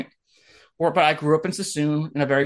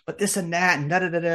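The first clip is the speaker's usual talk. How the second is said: mocking imitation; 2 semitones higher, faster than usual. Mimics complainers dismissively.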